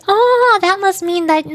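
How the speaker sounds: high, loud 'oh' of false discovery; mock realization. Streamer imitating people who assume they're a guy, mock realization. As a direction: mimic people jumping to a conclusion. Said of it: "So they think".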